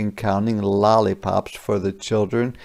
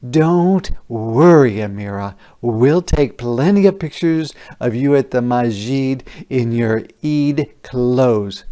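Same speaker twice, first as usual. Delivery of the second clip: reassuring mom; 3 dB louder than usual. Acted. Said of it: "said her mom".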